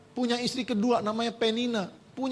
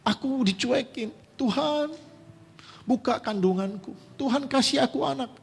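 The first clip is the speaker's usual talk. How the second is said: a mild acted plea, a bit higher, crying out Tuhan; pleading prayer; 4 semitones higher than usual. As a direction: pray as Hana, begging for a child, lightly voiced. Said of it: "Dia bilang".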